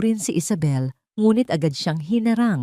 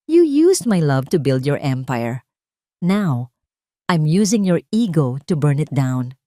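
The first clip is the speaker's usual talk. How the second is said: cold triumph; 3 semitones lower than usual. A narrator's reading. Wife's cold triumphant line.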